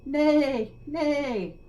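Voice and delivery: high, loud whinnying "Nay, nay"; horse neigh. Acted. Horse asking the librarian for something to do, neighing. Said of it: "All she heard was".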